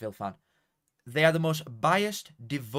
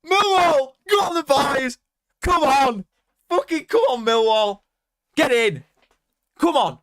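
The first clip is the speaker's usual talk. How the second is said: goal celebration shout; 14 semitones higher, 11 dB louder than usual. Real, not acted. Streamer to viewers after a Millwall goal, ecstatic shouting. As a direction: roar it out, full-throated and high, as the goal goes in.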